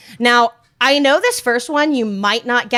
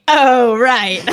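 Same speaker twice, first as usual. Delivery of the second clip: mock epitaph "oh right"; 6 dB louder than usual. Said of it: "it's gonna say".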